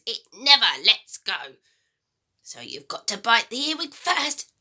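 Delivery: put-on a greedy, gloating old woman's voice; wicked old grandma. Grandma taunting George about eating slugs, gloating. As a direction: savour every disgusting word.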